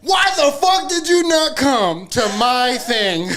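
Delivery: slow, laughing mock outrage; mock angry. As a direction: ham up the outrage. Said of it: "'Cause you was like".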